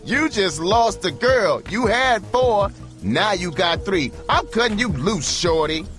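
high, loud shrieking, slow on the first lines; angry scream. A narrator's reading. Hooker quitting her pimp through the glass, screaming. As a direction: scream it at him as you quit. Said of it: "She screamed".

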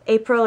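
April with an "ah" start, stressed late; German month name. Shown as a demonstration. Learner showing viewers the months, German pronunciation. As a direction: say April as "ah-PRIL", rising. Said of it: "to do the months".

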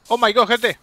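sudden high startled cry; shocked at the bigger enemy; alarmed surprise. Real, not acted. Sudden bigger fight appears. (sorpresa alarmada)

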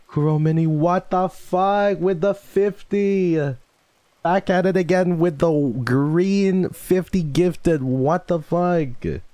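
high, loud, drawn-out shriek of amazement; shocked excited yelling. Real, not acted. Streamer thanks viewer for fifty gifts, shocked high yelling. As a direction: stretch the words out in a loud, high yell. Reacts to fifty gifted memberships.

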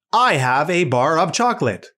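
lightly voiced robot stating a fact; even robot-like statement; reading robot, telling sentence. Shown as a demonstration. Robot reading a sentence with a period, matter-of-fact. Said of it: "robot knows how to change its voice".

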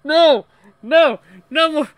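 loud, high outburst; protesting shout. Real, not acted. Gamer objecting to references to a band, shouting. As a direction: yell it to make it stop.

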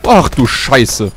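slow, drawn-out shocked curse. Real, not acted. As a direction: stretch it out in disbelief. Shocked by sudden enemy attack.

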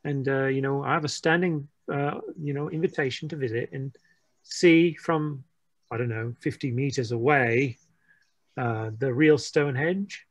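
lightly put-on British accent. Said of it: "Jeffrey breaking out the accent again".

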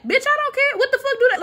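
fed up and cutting; exasperated. Real, not acted. Vlogger snapping at the commenter's claim.

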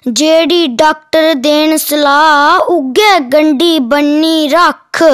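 declaimed rhyming poem with a repeated refrain; poem recitation. Acted. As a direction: recite it in steady metrical lines, drawing out the line endings.

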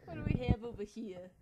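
loud attempted Jewish accent; Woody Allen. Exploring the game for a friend, Woody Allen-like Jewish accent. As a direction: put on a New York Jewish accent. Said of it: "You sound like Woody Allen".

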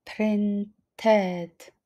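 "Printed" in two slow syllables, the ED fully voiced as "ted"; -ed sounded out. Shown as a demonstration. Teacher showing learners why ED is pronounced after T, "Printed" said "prin-ted". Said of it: "Tutaj wymawiamy E D".

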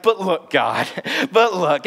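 pleading, drawn-out protest; tugging at God's sleeve; whining. Acted. Moses whining at God to look. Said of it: "kinda whining".

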